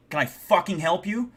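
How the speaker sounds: mild mock yell, demanding an answer; stern yell. Confronting whoever opened the door, mildly yelled stern challenge. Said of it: "I yell, like, I'm pretty sternly".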